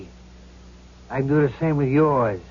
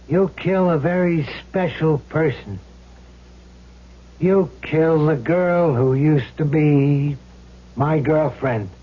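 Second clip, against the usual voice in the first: menacing; slower than usual. Acted. Villain spelling out the murder plan.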